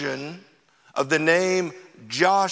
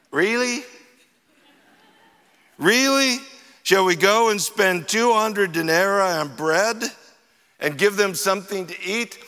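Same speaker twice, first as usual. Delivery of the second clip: sarcastic disbelief; 3 semitones higher than usual. Retold or imitated. Disciples mocking Jesus's order, sarcastic and incredulous. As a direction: scoff at the idea. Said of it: "this is the Brian version".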